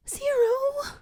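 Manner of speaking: high, loud cry of a name; horrified cry. A narrator's reading. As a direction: scream his name in horror. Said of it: "She gasps".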